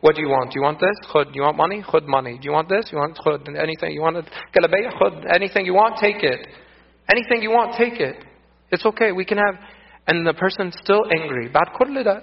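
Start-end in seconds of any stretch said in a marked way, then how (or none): 0.0-9.5 offering everything. Retold or imitated. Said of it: "and I did".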